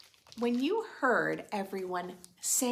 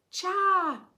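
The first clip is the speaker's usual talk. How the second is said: high, louder eager call; beckoning call; 11 semitones higher, 8 dB louder than usual. Acted. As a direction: call the children over, delighted. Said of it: "she beckoned".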